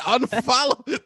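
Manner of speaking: slow, loud Unfollow. stretched out; drawn out command. Real, not acted. Telling listeners to drop an ex's cousin, slow firm command.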